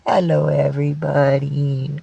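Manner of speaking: lightly voiced cat, lazily stretched; voicing the cat. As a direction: stretch the hello out for your pet. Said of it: "He says".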